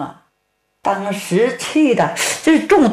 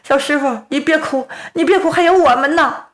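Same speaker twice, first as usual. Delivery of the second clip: comforting; 7 semitones higher, faster than usual. Acted. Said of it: "急忙安慰".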